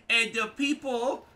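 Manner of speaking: high, loud drawn-out whine; mock whiny opponent. Player mocking a rival's chat complaint, high loud whine.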